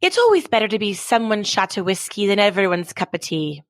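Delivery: light attempt at an Irish grandmother's accent; lightly voiced Irish grandmother giving advice. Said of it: "in her Irish accent".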